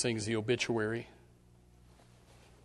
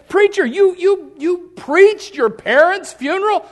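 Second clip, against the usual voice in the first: questioning listener; 15 dB louder, slower than usual. Retold or imitated. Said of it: "You say".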